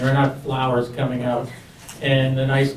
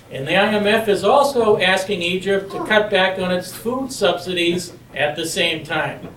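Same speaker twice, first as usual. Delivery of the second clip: Marine voice; 3 semitones higher than usual. Shown as a demonstration. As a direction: keep booming it like a Marine. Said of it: "use my Marine voice".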